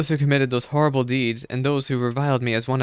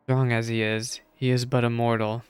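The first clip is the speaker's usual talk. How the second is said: calm wise elder. Acted. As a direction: gently reassure the lost soul. Reading a wise priest's counsel.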